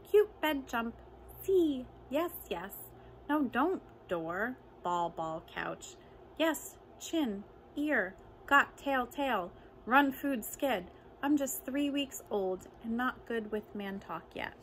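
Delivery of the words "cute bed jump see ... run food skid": excited kitten. Acted. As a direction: chirp the words like a kitten. Three-week-old kitten babbling.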